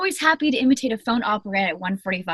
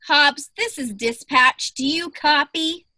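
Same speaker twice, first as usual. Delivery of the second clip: bored dispatcher voice; 3 semitones higher than usual. Pretend. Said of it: "put on a performance".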